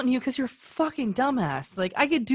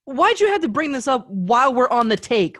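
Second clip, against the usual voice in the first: annoyed; 4 dB louder than usual. Real, not acted. Angry at partner mid-take.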